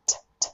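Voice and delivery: チャッチャッ as a voiceless flicked t; 弾く音. Shown as a demonstration. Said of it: "これ弾く音である".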